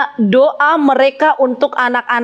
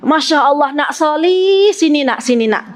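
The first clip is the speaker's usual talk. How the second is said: patient calling. Retold or imitated. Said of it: "ustazahnya biasanya ngelus dada".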